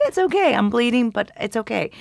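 mock British politeness, starting high; really nice British. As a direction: play it terribly nice in a British accent. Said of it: "you know, really nice".

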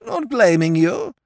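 high, slow, grandly forgiving; graciously pardoning her; forgiving Molly, high and lordly; magnanimous. A narrator's reading. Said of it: "he said magnanimously".

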